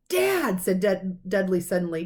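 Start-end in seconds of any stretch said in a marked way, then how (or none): 0.1-0.6 sudden call. A narrator's reading. Dudley cutting in.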